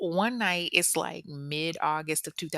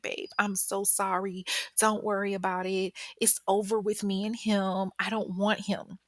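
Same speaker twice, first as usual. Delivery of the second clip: slightly raised, pleading imitation; apologetic; 3 semitones higher than usual. Woman reassures her date after the fight, mildly apologetic. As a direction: gently act out an apology. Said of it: "she is so apologetic to Chris".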